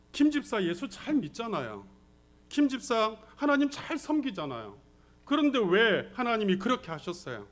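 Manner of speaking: pleading challenge to the pastor, mildly acted; confronting. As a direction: question him as if demanding answers. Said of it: "따지듯이 묻더라는 거예요". (따지듯이 묻는 말투)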